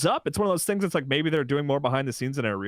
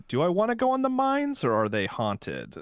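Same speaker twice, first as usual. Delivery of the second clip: put-on old prospector; 7 semitones higher than usual. Shown as a demonstration. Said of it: "You sounded like an old prospector".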